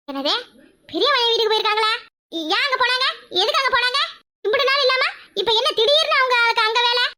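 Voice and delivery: high, rapid-fire disbelieving questions; shocked sister-in-law. Acted. Sister-in-law hearing her parents left, high shocked questions.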